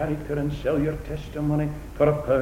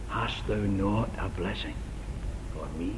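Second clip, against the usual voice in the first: pleading Esau; 4 semitones lower, 10 dB quieter than usual. Acted. Esau's plea.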